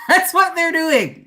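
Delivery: laughing. Real, not acted. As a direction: giggle it out with glee. Laughing at exes' reaction.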